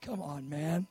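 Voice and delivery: low, soft chiding; gently chide, dropped low; mild reproach. Acted. Jesus to the doubting father, mildly reproachful. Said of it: "Jesus is like".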